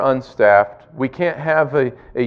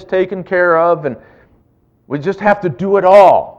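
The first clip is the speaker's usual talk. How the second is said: overwhelmed leader; 5 semitones higher, 5 dB louder than usual. Pretend. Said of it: "Peter and the twelve to say".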